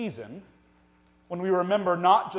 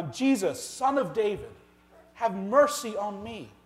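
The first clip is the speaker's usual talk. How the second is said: mild imitated cry, pitched higher; 4 semitones higher than usual. Preacher voicing blind beggar calling to Jesus, mild cry. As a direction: call out for mercy, slightly raised. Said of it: "begins to cry out and say".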